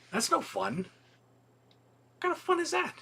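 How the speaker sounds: high, slow mock-whiny complaint; mock whine. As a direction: whine it like a sulking kid, drawn out. Mock complaint about online store.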